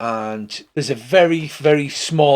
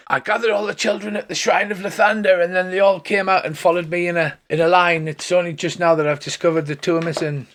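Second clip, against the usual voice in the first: pitched-up dragonborn character; higher, put-on creature voice; lisping draconic voice; 5 semitones higher than usual. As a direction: play a dragonborn priest with a bit of a lisp. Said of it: "he's got a draconic voice".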